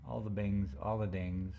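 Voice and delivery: talking around a mint; words round a candy in the mouth; mouth full. Real, not acted. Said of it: "Sorry, I have a mint in my mouth".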